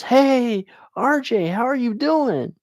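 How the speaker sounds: lightly voiced friendly receptionist, pitched high; high, drawn-up hello to someone you know; counter lady's greeting. Lady behind the counter greets an old schoolmate, high-pitched greeting.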